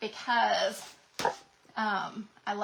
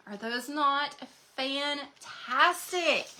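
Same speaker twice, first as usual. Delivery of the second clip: slow, drawn-out gushing, a bit higher; 4 semitones higher, much slower than usual. Real, not acted. Crafter gushing to viewers over transfer colors, drawn out. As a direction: savor each word in awe.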